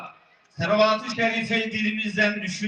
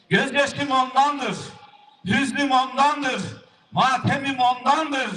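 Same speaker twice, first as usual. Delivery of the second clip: grieving lament; 7 semitones higher than usual. Acted. Prophet's lament, high, slow.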